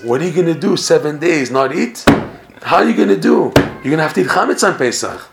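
mocking taunt. Prisoners jeering at Moshe Dov, mocking. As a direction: tease him that he'll have to give in.

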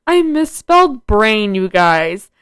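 cringe at own typo; laughing confession. Real, not acted. Embarrassed confession.

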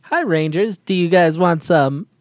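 goofy buck-toothed beaver drawl; lisping buck-toothed beaver. Retold or imitated. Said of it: "He coulda done that beaver voice".

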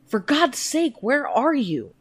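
high, loud calling out into the night; screaming names. A narrator's reading. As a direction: scream for lost children. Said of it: "screaming toward the still clanging bell".

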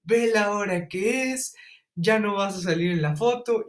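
a teacher scolding a late student, lightly imitated. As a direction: imitate the teacher tut-tutting him, drawn out. Teacher scolding him over hair.

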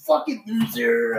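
hammed-up angry growl and yell; mock angry yelling. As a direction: yell like a sore hothead. Bakugo stomping around yelling.

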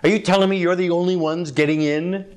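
mock the believer with scornful, rapid questions; a hostile skeptic sneering at your little club; sarcastic attack. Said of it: "Can you tell by the tone of voice there?".

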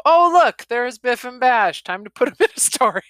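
high and loud, bubbly glee; playful high imitation of a cheerful author; excited mock author. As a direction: pretend the author is delighted to spot her characters. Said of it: "it's as if Sarah was able to visit and go".

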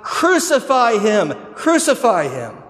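loud, slow, acted-out angry chant; enraged mob cry. Preacher voices the enraged mob answering the governor, loud drawn-out chant. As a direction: roar it out slowly as the mob. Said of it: "the enraged mob cries out".

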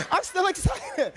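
"still" stretched out, shouted and slow; excited. Real, not acted. Preacher shouting to the congregation, slowly and joyfully.

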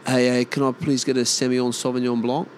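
mimicked French wine names in Aussie speech; Aussie trying "blonk" for Blanc; Aussie attempting French. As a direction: politely order with attempted French vowels. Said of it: "when they try and mimic the way it's supposed to sound".

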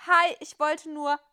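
a hint of nervous sweetness to the teacher; flustered innocent. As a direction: play it caught red-handed. Melissa caught by the teacher.

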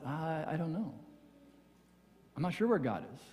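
soft, limp, unsure mumble; milquetoast reply. Retold or imitated. Friend asked about God answers in a limp, soft voice. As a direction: hand the answer back weakly, barely committing. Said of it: "like, milquetoast response".

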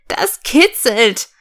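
high giggle, then drawn-out words; acted giggly little character; ticklish giggle. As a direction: squeal it like a tickled little engine. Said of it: "rief die kleine Lok".

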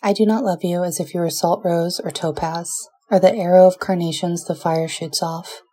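tender, measured poetry recital; poem reading. Acted. Reads Neruda love sonnet.

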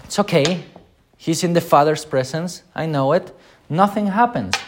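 a breezy, unbothered Jesus, imitated; mock shrugging comfort. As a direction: brush it off lightly with a high, careless voice. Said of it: "Jesus could have gone".

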